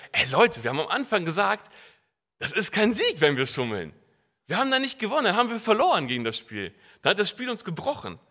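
pleading with friends not to cheat; urgent appeal. Retold or imitated. Retells appeal to card players. (eindringlicher Appell an die Mitspieler)

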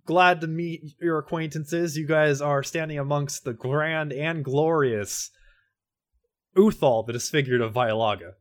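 slow, proud herald roll of titles; grandiose title list. Acted. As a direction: boast each title like a legend. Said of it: "if we're doing introductions".

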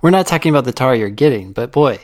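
loud, eager sales pitch; salesman pitch. Pretend.

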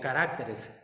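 caracteres stressed on the third syllable, te; correct stress. Shown as a demonstration. Preacher correcting his own word, stress on te. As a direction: say caracteres as ca-rac-TE-res. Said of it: "Lleva acento esta palabra".

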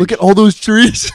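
high, loud, excited try-out; trying the phrase out, thrilled; excited test line. Shown as a demonstration. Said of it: "that actually kinda sounds good".

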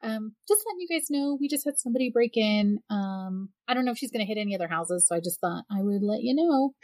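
imitating an overly calm caller; too calm. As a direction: report it as if it were nothing. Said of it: "too calm".

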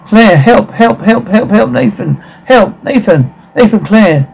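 high, repeated cries for help; panicked pleading without full volume; understated acted scream. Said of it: "Claire screaming".

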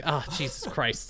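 mock exasperation. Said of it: "the classic hand in face".

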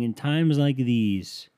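hammed-up commercial announcer; mock commercial voice. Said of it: "companies were going out and saying".

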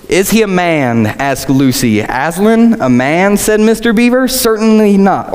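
lively dialogue read aloud; story reading. Acted. Preacher reading Lucy and Mister Beaver's dialogue, story reading. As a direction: read it out with lifted questions.

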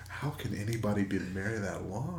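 asked through a chuckle, not quite steady; half-laughing self-mockery; laughing question. Real, not acted. Husband joking about his long marriage, laughing. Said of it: "That's what I say when I look in the mirror".

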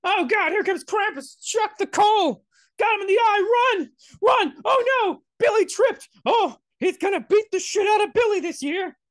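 put-on high, loud kid yelling in terror; hammed-up shrieks of children fleeing a monster; panicked child. Children fleeing Krampus, acted.

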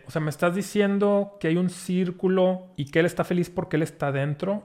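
mildly puzzled king checking what he heard; confused. Acted. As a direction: ask it with a touch of confusion. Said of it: "se queda así confundido y le dice".

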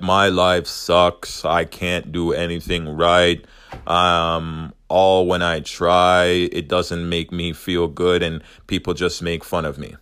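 slow, mopey, self-pitying demo; exaggerated sad voice. Shown as a demonstration. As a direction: drag it out like a sulking kid. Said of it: "I hope you can hear the tone of my voice".

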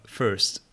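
"first" said slowly with the R sounded. Shown as a demonstration. Learner trying the word for the coach, "first" with a careful R. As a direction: try "first" carefully, putting the R in. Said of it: "when I pronounce them".

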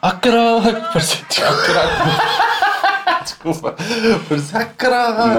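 high, loud shocked cry with nervous laughter; shocked outburst. Real, not acted. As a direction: yell in disbelief at the screen. Shocked watching explosion video, laughing. (grito de choque com riso nervoso)

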